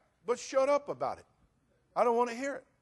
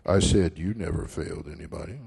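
deep repeat; 14 semitones lower, 7 dB louder than usual. Shown as a demonstration. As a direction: repeat it in a deep, booming irony. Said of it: "please listen now".

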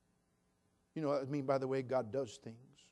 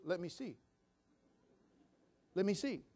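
put-on child voice; 5 semitones higher than usual. Grandson insisting.

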